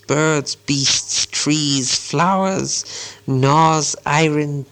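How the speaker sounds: very slow, drawn-out riddle verse; riddle recital. A narrator's reading. Gollum poses Bilbo a hard riddle, slow and deliberate. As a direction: intone each item slowly and deliberately.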